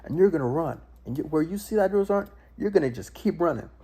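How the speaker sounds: imitating a screaming drill instructor; drill sergeant screaming. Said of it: "they just start screaming".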